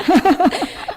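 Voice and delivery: burst of laughter. Real, not acted. Host laughs at student trying.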